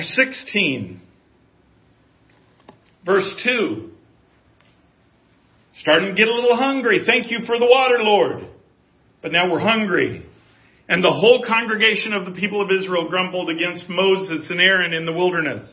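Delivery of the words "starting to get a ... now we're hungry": mock whine. Grumbling Israelites voiced.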